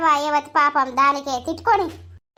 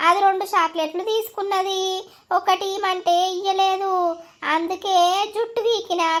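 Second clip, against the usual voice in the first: put-on child voice; 4 semitones higher than usual. Young boy tells mother his side.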